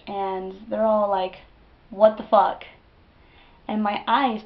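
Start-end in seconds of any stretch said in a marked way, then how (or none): 1.9-2.6 shocked. Retold or imitated. Friends shocked by the attack.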